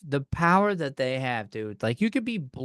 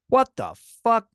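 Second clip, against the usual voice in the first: high, loud, incredulous outburst; appalled, pitched up and punched; exasperated outrage; 7 semitones higher, 5 dB louder than usual. Acted. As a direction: explode in disbelief. Outraged climax of the rant.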